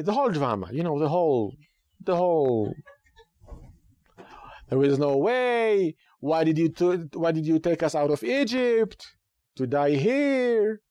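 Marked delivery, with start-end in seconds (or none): 4.7-10.8 mock complaining. Israelites complaining to Moses.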